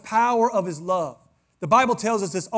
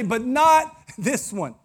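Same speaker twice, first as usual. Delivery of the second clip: laughing quote; 4 semitones higher, 6 dB louder, much slower than usual. Retold or imitated. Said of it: "turn around and say".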